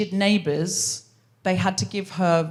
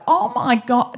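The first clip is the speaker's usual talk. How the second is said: put-on higher, gushing drunk partygoer; drunk woman; 4 semitones higher, slower than usual. Drunk woman spotting an actress, gushing. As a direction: gush like a tipsy fan. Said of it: "She was very drunk".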